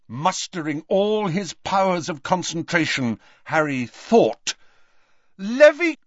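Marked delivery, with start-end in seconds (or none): 5.4-6.0 high, loud, broken-off incantation; urgent spell. A narrator's reading. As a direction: start the spell forcefully and get cut off. Harry's spell interrupted by Snape.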